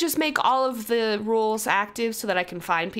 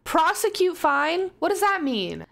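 puzzled question; 4 semitones higher than usual. Real, not acted. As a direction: ask it like the words make no sense. Puzzled at a game option.

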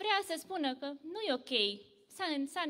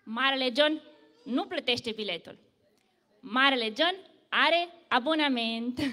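loud boast; 5 dB louder than usual. Acted. Big John answering the brave passenger, loud and proud. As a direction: boom it out proudly. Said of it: "și spune, tare".

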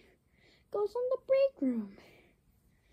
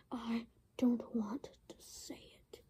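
soft breathy whisper; whispered refusal; 6 semitones lower, 10 dB quieter than usual. Acted. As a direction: mutter it sulkily. Repeated as a whisper.

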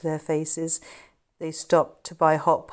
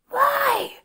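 short whispered question; 5 dB louder than usual. Acted. Charlie to Jimmy while hiding, whisper. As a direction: whisper back, puzzled. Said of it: "Charlie whispered back".

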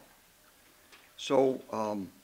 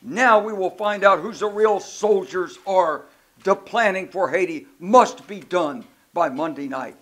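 put-on a commanding general's Polish accent; 5 semitones higher, 9 dB louder than usual. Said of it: "in the way Shali did with his Polish accent".

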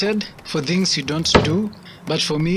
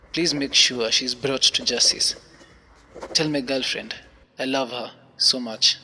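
solemn note read; 3 semitones lower than usual. Acted. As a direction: read it low and resigned, like a last note. Reads his farewell note.

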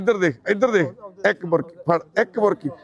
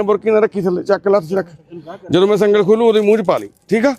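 ordinary delivery

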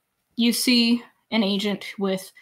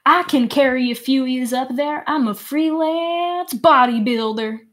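Gruff voice; 3 semitones higher, 3 dB louder than usual. Acted. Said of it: "Gruff looks at you and is like".

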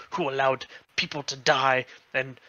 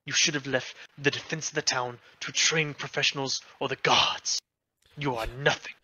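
contemptuous father; 3 semitones higher than usual. Acted. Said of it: "he's like".

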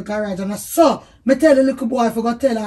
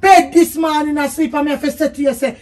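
scolding; 2 semitones higher, 4 dB louder than usual. Real, not acted. Wife scolding husband.

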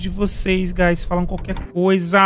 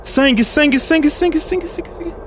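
urgent repeating; 7 semitones higher than usual. Real, not acted. Spotting blood anomaly urgently.

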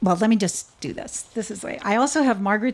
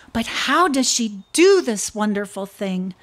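amazement; 4 dB louder than usual. Acted. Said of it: "the snake cried in amazement".

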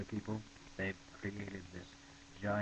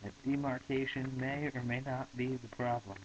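yelled demand; 5 semitones higher, 4 dB louder than usual. Acted. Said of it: "yelled Broomfondle".

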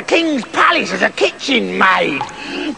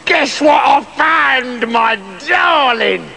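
excited beggar; 7 semitones higher, slower than usual. Acted. Beggar voiced excitedly to Beryl.

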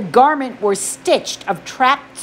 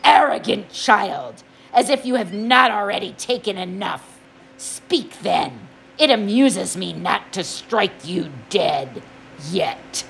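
a hint of lazy menace; menacing god voice; 2 semitones lower than usual. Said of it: "Hades said".

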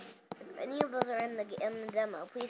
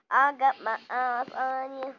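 scared horror game streamer; 2 semitones higher, 8 dB louder, slower than usual. Real, not acted. Watching an animatronic, scared.

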